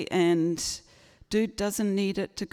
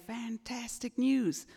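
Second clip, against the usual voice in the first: imitated American relatives announcing a visit; American accent; 3 semitones higher, 4 dB quieter than usual. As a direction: put on an American accent for the good news. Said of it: "it's the in-laws from America".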